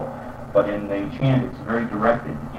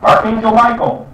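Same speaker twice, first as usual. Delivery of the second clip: high loud call to Archangel Michael; 11 semitones higher, 8 dB louder than usual. Shown as a demonstration. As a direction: call out to him. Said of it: "You know".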